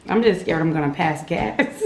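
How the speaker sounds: laughing through nervous words. Real, not acted. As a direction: giggle it out nervously.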